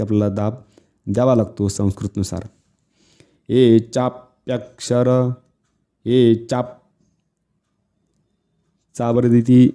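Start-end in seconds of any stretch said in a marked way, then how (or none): 3.5-6.7 चाप्यक्षर with pressure on चा before the conjunct; stress on चा. Shown as a demonstration. Teacher demonstrates Sanskrit emphasis, pressing चा in चाप्यक्षर. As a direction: chant slowly, leaning on चाप. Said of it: "जोर दिला की नाही".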